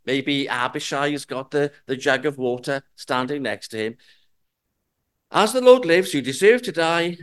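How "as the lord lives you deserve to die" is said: louder taunting proclamation; triumphant taunt. Acted. David brandishing the spear to taunt Abner, loud. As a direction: rub it in, loud and proud.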